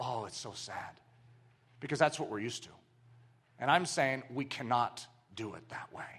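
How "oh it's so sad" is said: put-on hush, very soft and slow. Mocking a silent response that calls it sad: mock hushed tones. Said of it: "talked about this in hushed tones and go".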